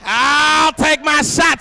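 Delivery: slow, loud drawn-out boast; stretched-out taunt; mock challenge. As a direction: call it out like a cocky fighter. Bold challenge shouted.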